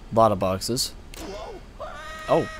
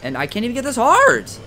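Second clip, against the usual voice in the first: high, loud frustrated cry; yelling at the game for the heart; 13 semitones higher, 4 dB louder than usual. Real, not acted. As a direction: demand it at the top of your voice.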